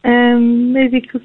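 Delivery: hesitant, nervous voice; unsure and timid. Real, not acted. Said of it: "I sound really nervous".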